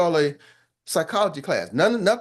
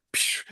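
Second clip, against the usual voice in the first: mock laser sound; 6 dB quieter than usual. Shield deflecting compliment.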